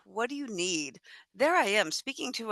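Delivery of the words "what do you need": kind. Acted. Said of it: "my kind little heart says".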